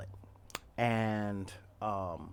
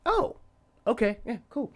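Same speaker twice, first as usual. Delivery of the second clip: much higher, jittery, startled reply; nervous squeak; 12 semitones higher, 5 dB louder than usual. Retold or imitated. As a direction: squeak it out like your heart is pounding. Heart racing, scared of big guy.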